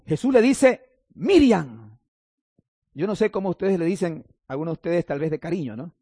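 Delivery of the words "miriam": calling by name. Acted. Jesus calls Mary by her personal name, calling out. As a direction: call MIRIAM, pitch leaping up and gliding down.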